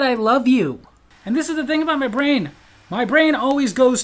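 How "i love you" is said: louder, pushing repeat; mock insistent. Wife insisting to distracted husband, louder and higher. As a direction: say it again with insistence. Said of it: "I said".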